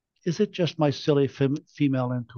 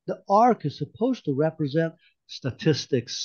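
sneering; 3 semitones higher than usual. Acted. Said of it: "sneered Ray".

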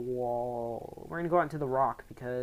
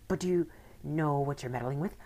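whisper; 2 semitones higher than usual. Acted. Villain lowers voice.

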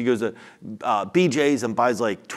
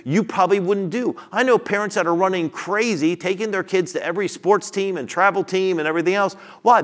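higher-pitched, energetic sermon delivery; impassioned preaching; 6 semitones higher, 4 dB louder than usual. Real, not acted. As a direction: preach it with rising insistence. Preaching with raised intensity.

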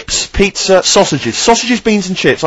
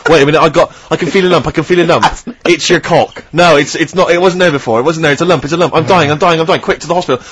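mock whinging hypochondriac. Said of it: "constantly whinging about the".

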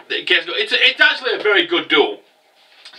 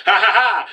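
mock triumphant laugh; 3 semitones higher than usual. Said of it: "I thought he was gonna be like".

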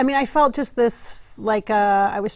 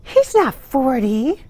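slow, louder incredulous protest; loud disbelief; 3 semitones higher, 5 dB louder, slower than usual. Real, not acted. Hearing he is forty, drawn-out disbelief. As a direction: draw it out, refusing to believe it.

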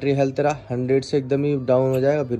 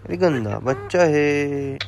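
drawn-out scolding; much slower than usual. Real, not acted. Slow drawn-out mock scolding.

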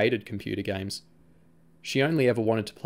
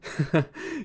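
laugh; 7 semitones higher than usual. A narrator's reading. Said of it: "Sam said, laughing".

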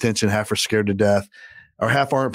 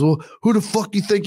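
higher-pitched, imitating a man squaring up; retold angry challenge; 9 semitones higher than usual. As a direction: throw it out as a mock challenge. Other guy challenges him in retold standoff.

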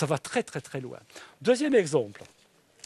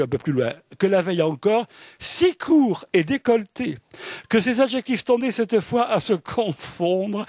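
raised, lively literary reading; reading a passage aloud; 4 semitones higher, 3 dB louder than usual. Acted. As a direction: read the novel's sentence with relish. Second passage read aloud. (lecture expressive d'un extrait de roman)

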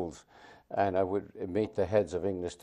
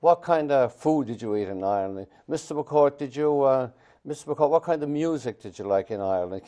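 high, loud, wheedling schoolkid questions; mocking student voice; 5 semitones higher, 6 dB louder than usual. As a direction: stall the teacher like a sly pupil. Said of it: "in case I might have written on the board".

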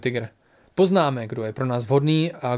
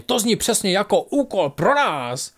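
higher, slow and relishing the words; amused exclamation; 6 semitones higher, slower than usual. A narrator's reading. Bík jokes to his companions about the task, amused exclamation. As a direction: call it out with playful bravado. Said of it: "křikl Bík pobaveně".

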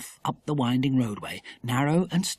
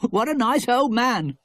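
with a laugh; 10 semitones higher than usual. A narrator's reading. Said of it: "said Philip with a laugh".

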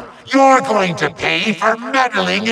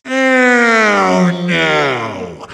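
dismayed wail. Acted. Villain loses the source.

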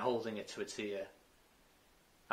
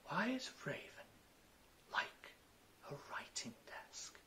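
odd riddle; 7 semitones higher, 12 dB quieter than usual. Acted.

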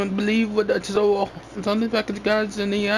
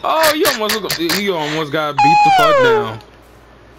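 mock threat; 6 semitones higher, 5 dB louder, slower than usual. Mock threat after insult.

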